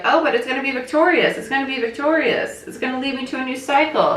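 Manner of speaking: high, hopeful, naive voice; wishful hopeful voice; hopeful inner voice. Pretend. Voices hopeful part of the client.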